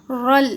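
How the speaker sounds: رل with a full, thick R; heavy R. Shown as a demonstration. Teacher showing learners how to read Ra, heavy R. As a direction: make the R of رل heavy. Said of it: "را کو موٹا پڑھیے".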